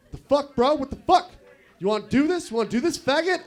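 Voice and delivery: squaring up like a hothead bro; angry bro. Retold or imitated. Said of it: "He's like".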